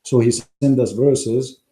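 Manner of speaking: strained, fading hoarse voice; losing my voice. Real, not acted. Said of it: "I'm losing my voice".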